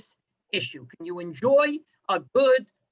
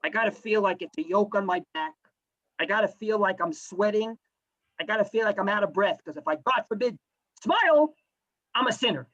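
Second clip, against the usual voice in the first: a hint of a weighed-down groan, lower; mock burdened; 3 semitones lower than usual. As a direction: lightly act out feeling Torah as a heavy yoke. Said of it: "walk around saying".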